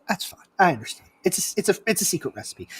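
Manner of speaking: soft, low, understanding reply; quiet acceptance. Retold or imitated. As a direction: back off gently in a hushed voice. Retold quiet acceptance about secret.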